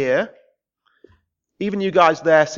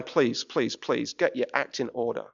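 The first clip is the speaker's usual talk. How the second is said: quiet pleading; 8 semitones lower, 8 dB quieter than usual. Real, not acted. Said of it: "tonight I'm going".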